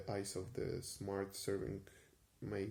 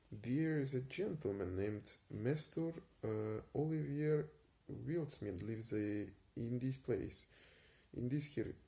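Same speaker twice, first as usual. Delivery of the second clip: attempted Yorkshire accent; 3 semitones higher than usual. Detective asks the barber, in a shaky Yorkshire accent. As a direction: stumble through Archer Doe's Yorkshire voice. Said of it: "I will stop trying to do the accent".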